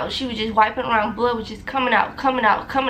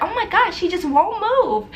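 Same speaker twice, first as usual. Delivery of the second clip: mock frustrated nurse; 7 semitones higher than usual. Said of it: "She's like".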